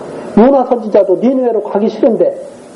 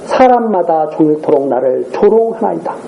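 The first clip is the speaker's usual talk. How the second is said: measured, lower-pitched Bible reading; scripture reading; 4 semitones lower than usual. Real, not acted. Preacher reads the prophet's lament to the congregation, formal scripture reading. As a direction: read the passage out formally and evenly.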